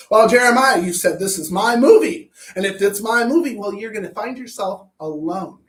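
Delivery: loud, indignant quoted rant; hammed-up loud complaint; mock outburst. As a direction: throw it at Jeremiah like an accusation. Quoted tirade at Jeremiah.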